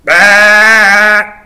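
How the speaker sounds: loud drawn-out "bah". Pretend. Imitates Gimli's Bah.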